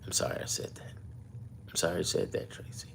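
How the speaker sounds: hushed, half-joking sorry; whispered apology. Real, not acted. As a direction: whisper it as if caught.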